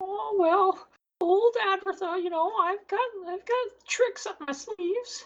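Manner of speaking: put-on very high, old crone voice. Voicing an old woman who greets a tiefling at her door: Advertha old woman voice. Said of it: "Why are you not a snake?".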